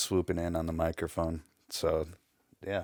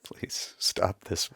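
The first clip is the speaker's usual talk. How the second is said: slow, pleading whisper; scared whisper; much slower than usual. Pretend. Mock scared reply.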